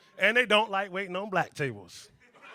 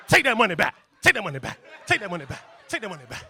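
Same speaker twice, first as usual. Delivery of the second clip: ghost of servants; 3 semitones higher, 9 dB louder than usual. Pretend.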